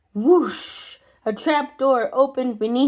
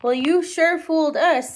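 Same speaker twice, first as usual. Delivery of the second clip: put-on child voice; 5 semitones higher than usual. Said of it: "said Tommy".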